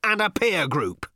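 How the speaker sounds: high, loud, slow shout. Acted. Ford clarifying to Arthur, slow loud shout. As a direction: spell it out at full volume. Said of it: "shouted Ford".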